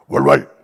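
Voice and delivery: low, loud barking "월월"; dog bark. Pretend. (낮고 크게 개 짖는 소리)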